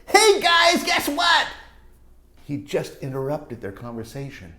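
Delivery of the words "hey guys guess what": higher, loud blurt; yelling. Acted. Lewis yelling to interrupt the grown-ups. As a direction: blurt it out to the group. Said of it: "he's yelling".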